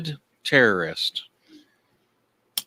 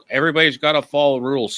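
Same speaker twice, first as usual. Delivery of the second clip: mock rent-a-cop; 4 semitones higher, 5 dB louder, faster than usual. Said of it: "like this".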